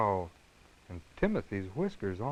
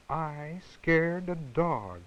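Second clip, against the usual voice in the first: amazed; 6 semitones higher, much slower than usual. Acted. Surprised kitten marvels.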